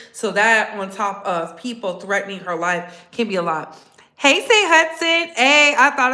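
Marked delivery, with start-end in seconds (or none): 4.2-6.1 excited greeting. Real, not acted. Greeting a viewer.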